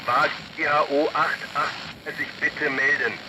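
thin, distant voice over a police radio; radio call. Acted. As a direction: call in through the crackle of a car radio. (Polizeifunk, leise und entfernt)

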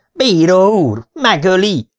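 high, loud yell from the stands. Acted. Fruit seller yelling to the referee from a bench, high loud shout. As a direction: yell it to the referee like a panicked fan. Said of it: "onnan ordítozta".

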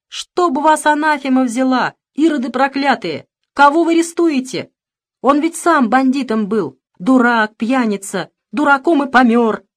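put-on high wailing old woman's lament; shaky old voice. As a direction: wail it like an angry old granny. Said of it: "запричитала старческим голосом".

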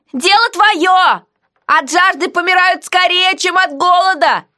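high, slow, mocking heroine; defiant heroine. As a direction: tease the jailer back, slowly. Heroine voiced in dialogue.

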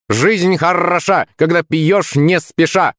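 high, drawn-out parrot cry; high-pitched talking bird, stretching the rhyme; Rambo. A narrator's reading. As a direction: squawk it slowly like a parrot, trilling the R. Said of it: "закричал неисправимый Рэмбо".

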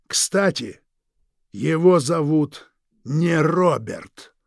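slow, silky, threatening drawl; menacing villain. Acted. Villain Krieg menacing the Forbes couple, slow and silky. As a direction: savour each word like a veiled threat.

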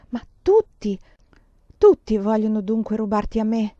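a man's despairing outcry; anguished exclamation. Acted. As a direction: burst out in anguish. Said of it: "esclamò e pianse".

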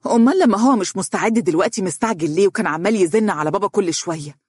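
indignant anger. Acted. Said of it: "وقالت بحنق".

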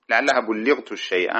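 "بلغت" said bullighat, doubled L; with shadda. Shown as a demonstration. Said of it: "بالتشديد".

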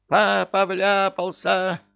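very high, loud, slow panicked shriek; panicked wail. A narrator's reading. The salamander alarming the whole syndicate, panicked shriek. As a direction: scream the news in alarm. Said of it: "Панический вопль саламандры".

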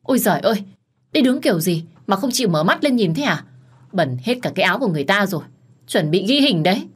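lightly voiced assistant yelling in alarm. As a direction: scold her for not looking. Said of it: "Trợ lý cậu ấy lúc này la lên".

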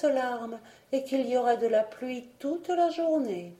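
voix de nuage aiguë, douce et suppliante; un petit nuage tendre qui implore son amie; nuage rose. Acted. Le nuage parle longuement. (le nuage supplie Catherine de venir, voix aiguë et douce)

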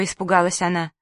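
usual speaking voice

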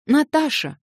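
high, loud cry of put-on courage; forced bold cry. A narrator's reading. Alyosha calls at Natasha's door with forced boldness, loud and high. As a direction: call out boldly, faking courage. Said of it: "вскрикнул он с какой-то выделанную смелостью".

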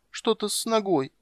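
put-on high, slow childlike voice; a small girl complaining; voiced young princess; little girl voice. A narrator's reading.

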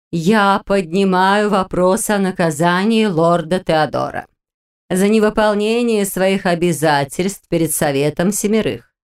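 slow, stately council pronouncement; imperious plummy grande dame. Acted. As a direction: declare it like an imperious matriarch. Witch formally raises a motion.

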